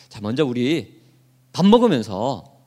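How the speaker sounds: lightly voiced father easing guests to the table; a hint of a polite host father; imitating Jesse. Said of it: "이랬던 것 같아요".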